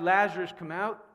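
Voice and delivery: loud on the name, then easing; mild preacher's imitation of a shout; shouted command. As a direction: call out firmly, as a retold command. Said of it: "Jesus shouted".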